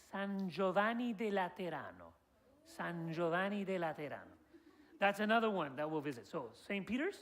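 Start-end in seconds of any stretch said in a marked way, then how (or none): 0.1-4.4 San Giovanni de Laterano said the Italian way; Italian pronunciation. Shown as a demonstration. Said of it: "It's called".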